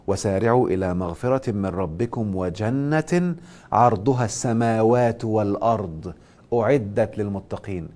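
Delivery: slow, measured verse recitation; Quran recitation. Real, not acted. Teacher quoting scripture to students, slow recitation. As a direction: recite the verse slowly, drawing out the long vowels.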